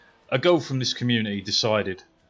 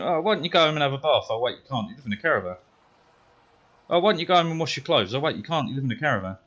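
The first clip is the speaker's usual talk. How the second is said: sing-song jeering taunts, a bit higher and faster; mocking taunt; 4 semitones higher, faster than usual. Boy in class taunting a bully girl, mock sing-song jeer. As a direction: rattle off the digs to wind her up. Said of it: "like this".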